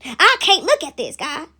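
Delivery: lightly acted refusal to watch; appalled ancestor. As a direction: plead upward in mock horror. Appalled ancestors pleading with God.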